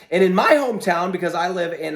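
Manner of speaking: a squeaky voice cracking upward. Real, not acted. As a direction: let the voice squeak a little. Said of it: "I'm squeaking a little bit here".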